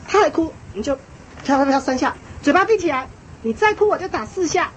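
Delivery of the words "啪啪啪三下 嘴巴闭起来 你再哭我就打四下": demonstrated command, pitched up; stern parent. Shown as a demonstration. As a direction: order a crying child to stop. (示范家长严厉警告)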